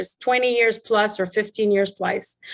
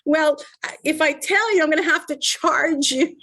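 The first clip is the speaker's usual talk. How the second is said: joking tease; 4 semitones higher than usual. Retold or imitated.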